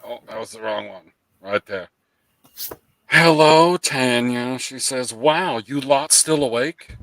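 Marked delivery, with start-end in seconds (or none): 3.1-7.0 loud British greeting, stretched out; badly faked British accent; terrible British accent. Streamer reading Tanya's chat message in bad British. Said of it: "I can't do a terrible, uh, British accent".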